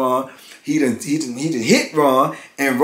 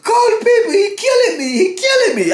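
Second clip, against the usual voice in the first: very high, loud frantic cry for help; high-pitched panicked shouting; imitated desperate holler; 3 dB louder than usual. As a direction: mimic a man begging through the vent. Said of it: "I heard D holler out".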